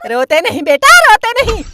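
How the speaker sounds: put-on hushing a child. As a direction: gently shush the child.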